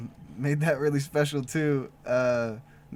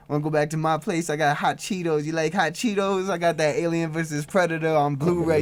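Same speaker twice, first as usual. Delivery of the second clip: lightly pitched-up chipmunk voice; a touch higher, playful helium tone; 3 semitones higher, 3 dB louder than usual. Retold or imitated. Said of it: "pitched up voice".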